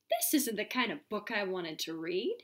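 lively storybook reading voice; reading to children. Acted. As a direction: read it aloud to a class. Reads picture book to class.

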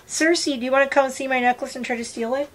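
high sing-song call to her bird. Real, not acted. Calling her pet bird Cersei over in a high coaxing voice.

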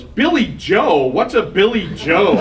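put-on a slow, drawn-out kid question; child voice, loud. Son at the piano bar, a mild mock child voice. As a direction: ask it like a puzzled six-year-old. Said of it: "in the little six-year-old voice, super loud".

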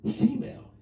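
a hammed-up lover-man voice savoring summer dresses; smooth seductive voice. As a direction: purr it like a smooth ladies' man. Admiring sundresses in lowered voice.

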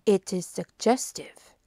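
lightly voiced detective, emphatic and measured; a hint of a deliberate foreign sleuth; Poirot.

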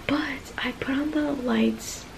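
soft late-night whisper. Real, not acted. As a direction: whisper so nobody wakes. Late night, lights low.

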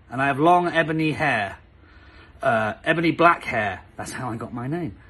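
mock earnest reading of bad fan fiction; lightly hammed-up reading; reading aloud. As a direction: read it straight-faced.

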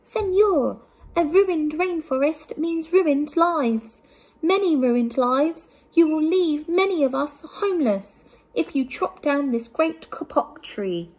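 high, piping little frog voice; squeaky frog voice. A narrator's reading. Tree frog pleads with the sleeping man in a high squeaky voice. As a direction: pipe it up high like a tiny frog. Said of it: "In a squeaky voice".

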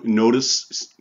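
"notice" with the C as an S sound; soft C. Shown as a demonstration. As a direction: let the soft C in "notice" hiss like an S. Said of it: "the C sounds like an S".

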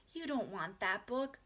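slow, mildly pained protest; dismayed. A narrator's reading. Beezus talks Ramona out of the book, slow dismay. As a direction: discourage with a touch of dismay. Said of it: "whispered Beezus in dismay".

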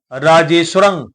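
"ਰਾਜੇਸ਼ਵਰੰ" with only a half v after the sh; half vava. Shown as a demonstration. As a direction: say "ਰਾਜੇਸ਼ਵਰੰ", the ਵ light and joined to ਸ਼. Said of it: "ਅੱਧੇ ਦਾ ਹੀ ਉਚਾਰਨ ਕਰਾਂਗੇ". ("ਰਾਜੇਸ਼ਵਰੰ" ਵਿੱਚ ਸ਼ ਦੇ ਪੈਰ ਵਿੱਚ ਅੱਧਾ ਵੱਵਾ, ਪੂਰਾ ਨਹੀਂ)

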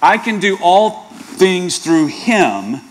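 slow, earnest and deliberate; the right version. Shown as a demonstration. Pastor giving the true verse slowly and earnestly. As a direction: let each word land with sincerity. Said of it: "how about this?".

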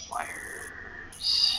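whispered repeat, breathy and soft; whispering. Real, not acted. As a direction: whisper Wires to yourself.

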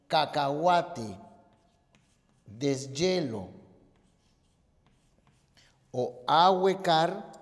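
"cacahuate", "deshielo", "ahuecar" spoken slowly, each syllable set apart; slow teacher's syllable demo of "ahuecar"; careful syllable split. Shown as a demonstration. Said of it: "esta es la forma correcta de separación".

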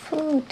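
"food" said with a long English u; English word food. Shown as a demonstration. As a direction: model "food" clearly. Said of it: "vas a decir".

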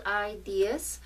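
slow New England accent on ideas. Real, not acted. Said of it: "that was my New England accent kicking in there".

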